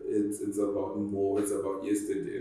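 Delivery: normal talking voice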